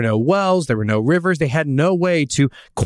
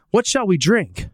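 grumbling people; 7 semitones higher than usual. Retold or imitated.

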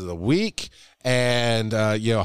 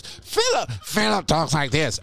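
plain voice. Shown as a demonstration. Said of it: "Philip does not speak in this voice".

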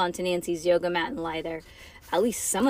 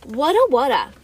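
loud, raised-pitch croak for water; 4 semitones higher, 9 dB louder than usual. A narrator's reading. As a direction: play someone dying of thirst. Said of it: "Bean croaked".

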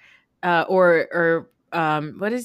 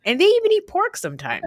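high and laughing through the words; mocking a bigot's excuse while laughing; 12 semitones higher, 5 dB louder than usual. Real, not acted. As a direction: crack up mid-line.

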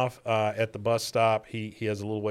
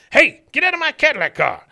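put-on higher, louder old man yell; mock angry shout; 8 dB louder than usual. Cotton yelling at the man taking his car, mock shout. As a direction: yell at the thief like a furious codger.

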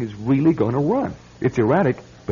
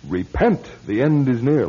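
mock doomsday preacher. Man mocks his great-uncle's belief as a mock preacher. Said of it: "like that, huh?".

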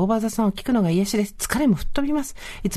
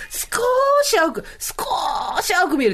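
少し stretched out high in an exaggerated way; drawn-out emphasis; 11 semitones higher, slower than usual. Shown as a demonstration. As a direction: draw out the vowel of 少し, high, then drop. Laughingly exaggerates how slightly greener it looks.

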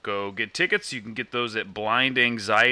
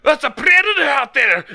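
high, loud alarmed Scottish-Russian shout; Scottish Russian accent; 9 dB louder than usual. Acted. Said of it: "a bunch of Russians with Scottish accents".

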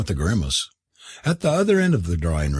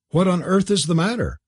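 put-on young lady voice; 9 semitones higher than usual. A narrator's reading. Kathleen asks.

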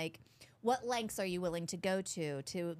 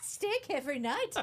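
put-on Southern accent; 6 semitones higher than usual. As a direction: whine it in a Southern twang. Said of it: "when you do the Southern accent".

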